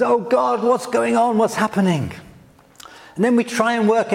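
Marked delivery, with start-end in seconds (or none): 0.0-2.1 frustrated cry. Retold or imitated. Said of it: "cry of frustration".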